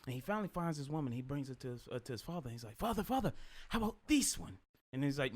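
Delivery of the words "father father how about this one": Jamaican son's voice. Retold or imitated. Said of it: "Your accent is uncanny".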